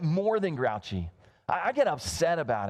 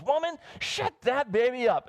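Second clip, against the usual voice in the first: stern preacher order; 6 semitones higher than usual. Retold or imitated. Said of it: "And so he goes".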